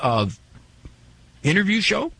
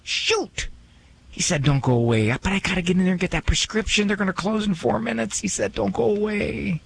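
a mildly fretting listener talking to himself; lightly voiced listener, annoyed and in a hurry; frustrated listener; 5 semitones higher than usual. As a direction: grumble lightly as a rushed listener in a parking lot. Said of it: "And you go".

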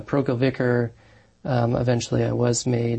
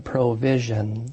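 PROVISION drawn out slowly; emphasized word; slower than usual. Real, not acted. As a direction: stress "provision", stretching it out slowly. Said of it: "I do emphasize that world".

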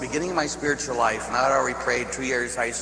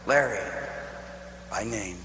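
low, hushed, with long pauses; calm, soft reassurance, spaced out; inner voice of God; 5 semitones lower, 6 dB quieter than usual. Retold or imitated. God reassuring Larry in his dream, quietly tender. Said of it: "heard the same thing".

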